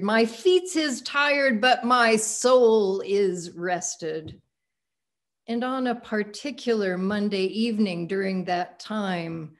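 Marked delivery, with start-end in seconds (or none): 0.0-4.4 a lightly voiced elderly woman, slowing on the second half; steady and slow on my soul is rested; profound old woman. Preacher voicing Mother Pollard answering if she's tired, lightly voiced elder woman. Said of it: "With profundity".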